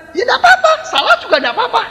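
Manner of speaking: giggling retold reassurance; laughing.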